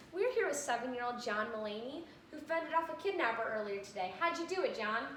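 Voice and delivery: mock TV reporter, soft and even; lightly voiced anchor interviewing a kid; news reporter. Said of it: "what he wanted to see on the news".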